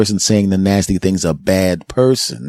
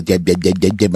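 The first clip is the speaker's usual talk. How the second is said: put-on baby babble. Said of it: "And the baby goes".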